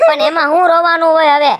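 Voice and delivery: loud tearful outburst; exasperated shout. Acted. Son shouting at crying girl about the death. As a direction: shout it through the upset.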